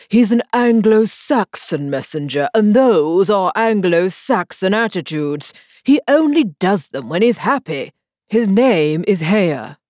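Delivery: lightly voiced king explaining; a hint of a pompous king; king explaining to Alice, lightly voiced.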